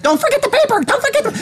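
high, exasperated nagging about the paper; upset. Retold or imitated. Guest nagging the bellboy about the newspaper, mock exasperated. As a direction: shriek the reminder in mock frustration. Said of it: "finally getting so upset about this paper".

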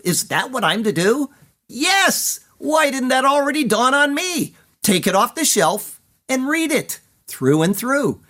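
a searching, pleading poem read high and lively; seeker's poem, questioning then glad; dramatic poem reading. Acted. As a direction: voice the seeker's inner questions, rising to a joyful yes. Poem read after poetic break.

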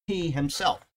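"he himself" with stress on "he"; emphatic "he himself"; emphasis on HE HIMSELF. Shown as a demonstration. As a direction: lean on "he", then add "himself". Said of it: "however you get the emphasis across".

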